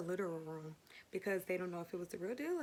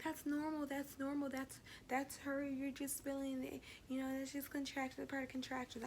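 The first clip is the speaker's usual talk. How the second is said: higher, lightly voiced soothing nurse; dismissive nurse; 5 semitones higher, 3 dB quieter than usual. Nurse to patient in labor, lightly voiced dismissive nurse. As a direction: brush off the patient's worry.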